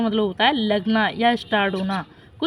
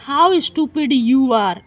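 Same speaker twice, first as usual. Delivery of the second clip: slow, mocking taunt of How stupid you are; scornful exclamation; 3 dB louder, much slower than usual. Shown as a demonstration. Teacher reading the grasshopper's taunt to the ant, mocking. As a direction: sneer the words out slowly at the friend. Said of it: "suddenly the expression has changed".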